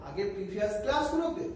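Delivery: quick, hurried recap; brisk teacher pace; speaking fast. Real, not acted. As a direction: rush through the known part. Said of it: "একটু fast বলছি".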